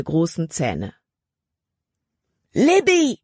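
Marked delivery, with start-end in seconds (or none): 2.5-3.2 high, loud call from far away; distant shout. A narrator's reading. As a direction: shout her name across the clearing. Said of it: "wie aus weiter Ferne drang Calebs Stimme".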